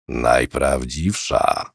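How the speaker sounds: put-on low, soft, slow old man's voice; a hint of pride in a low, quiet old voice; proud old man. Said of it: "odparł z dumą Cypek".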